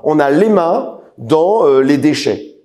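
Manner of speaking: "les mains" and "les déchets" set apart slowly; slow down and lean on "les mains dans"; weighty, spaced-out delivery of "les déchets"; stressed key words. Shown as a demonstration. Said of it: "j'appuie sur ce que je dis".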